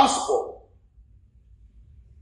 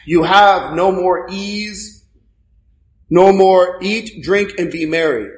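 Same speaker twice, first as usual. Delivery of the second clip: slow mocking stress. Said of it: "God is mocking him".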